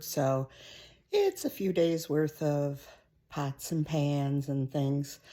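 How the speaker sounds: breathless after the stairs; panting a little between phrases; out of breath. Real, not acted. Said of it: "I'm out of breath too".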